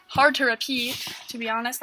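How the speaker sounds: winded, out of breath. Real, not acted. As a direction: speak as if out of breath. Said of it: "I'm, like, out of breath now".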